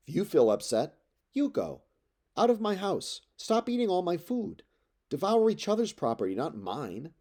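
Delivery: ordering them out of his house in rage; furious outburst. Acted. Telemachus throws the suitors out, high furious cry.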